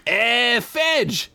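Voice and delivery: mock dwarf call, pitched high; dwarf yelling up. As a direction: call up the mine shaft. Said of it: "yelled up a dwarf".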